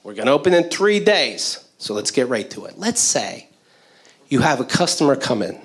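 earnest cheesy training talk; lightly voiced corporate trainer. Trainer teaching new hires coffee service, lightly cheesy. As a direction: keep it upbeat and corporate. Plays Applebee's trainer throughout.

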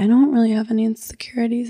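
fast, soft, whispered mimicry; mock whisper. Mimicking an actor dodging her question, whispered. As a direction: whisper it quickly like a smug actor. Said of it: "And he's like".

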